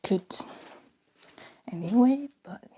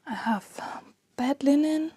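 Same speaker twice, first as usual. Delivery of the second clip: whispering. Real, not acted. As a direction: whisper so no one hears. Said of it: "I don't know why I'm whispering so much".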